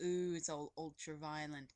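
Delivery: a weak attempt at a British accent, a bit low and soft; bad British accent. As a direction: try a British accent and only half land it. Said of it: "I can't do a British accent".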